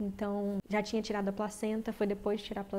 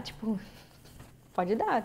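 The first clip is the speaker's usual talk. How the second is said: laughing; slower than usual. Retold or imitated. Laughing while telling nurses go ahead.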